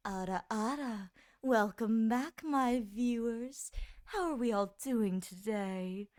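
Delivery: Ada Ada voice. Pretend. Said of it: "the voice that comes out is like".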